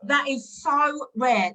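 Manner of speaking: mock gush. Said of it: "let's role play".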